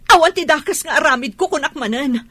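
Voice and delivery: loud, heated swearing to God; angry oath. Acted. Accused woman swearing to God at the wife, heated. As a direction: swear it with full force.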